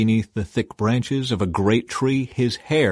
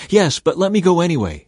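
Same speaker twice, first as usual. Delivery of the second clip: higher-pitched insistent plea; begging; 7 semitones higher, 4 dB louder than usual. A narrator's reading. Ahimaaz begging Joab to let him run. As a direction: beg to be let go. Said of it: "he begged".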